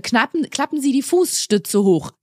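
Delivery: slow, formal Sie address; formal announcement. Shown as a demonstration. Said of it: "erst siezen und dann duzen".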